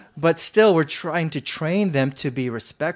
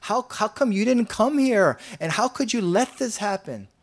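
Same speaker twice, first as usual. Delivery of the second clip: lightly voiced grumbling at Jesus, rising complaint; whiny imitation of a griping believer; 4 semitones higher, 3 dB louder than usual. Complaining believer asking Jesus why he let it happen, mock grumbling. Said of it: "you'll be grumbling all unceasingly".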